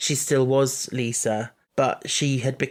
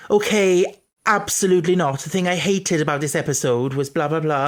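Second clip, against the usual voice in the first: loud, higher mock Welsh impression; Welsh accent; 3 semitones higher, 4 dB louder than usual. Teasing Ben's podcast rants, in a put-on Welsh accent. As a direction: mimic your co-host with a big Welsh lilt. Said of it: "Ben had a Welsh accent".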